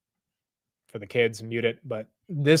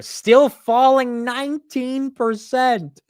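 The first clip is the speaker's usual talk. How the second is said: disbelief; 11 semitones higher, 6 dB louder, much slower than usual. Real, not acted. Reacting to stock drop.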